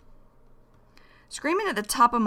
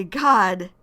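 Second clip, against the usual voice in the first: louder, emphatic exclamation; showing emotion; 6 dB louder than usual. Shown as a demonstration. Teacher repeats her reaction to Joe's story, showing emotion. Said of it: "just showing emotion".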